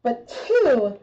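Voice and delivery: muffled through a respirator mask; talking through a rubber mask. Real, not acted. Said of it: "I'm so much more muffled now".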